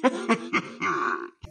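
sinister laugh on request; gangster laugh. Pretend. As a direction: give a creepy villain's laugh. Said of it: "Dá uma gargalhada sinistra aí". (risada de gangster sinistra)

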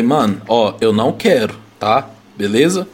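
low, firm refusal, understated; retold putting one's foot down; retold lost patience. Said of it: "aí eu já perdi a paciência".

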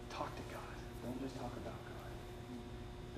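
a whispered, slowed-down urging. Real, not acted. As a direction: lean in and whisper it to the room. Preacher drops to hushed aside.

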